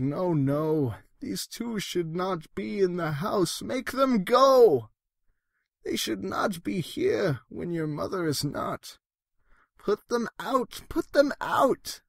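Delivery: nervous fish insisting the things leave; worried fish voice. Acted. Fish pleads again.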